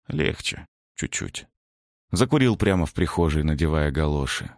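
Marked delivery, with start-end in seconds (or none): 0.1-1.5 whispered, very soft; breathy relief. A narrator's reading. Narrator after the nightmare, whispered relief.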